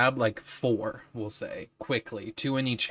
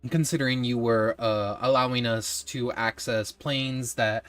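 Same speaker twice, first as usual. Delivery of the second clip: lightly voiced wizard giving praise; a hint of a grand, pleased wizard; praising wizard; 5 dB louder than usual. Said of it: "and say".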